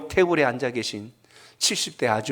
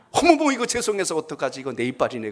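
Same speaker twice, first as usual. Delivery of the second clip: put-on embarrassed older woman. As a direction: imitate a flustered lady realizing her mistake. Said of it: "칠십 대 아주머니께서 이렇게 이야기하는". (당황한 칠십 대 아주머니 흉내)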